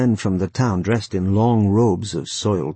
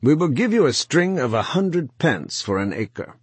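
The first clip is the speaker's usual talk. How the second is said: hard and higher, the kindness dropped; harsh; 7 semitones higher than usual. A narrator's reading. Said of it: "and then he said harshly".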